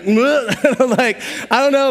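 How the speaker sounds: high, panicky, slowed voice with a laugh; mock-panicked stammer; freaking out. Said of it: "Freaking out".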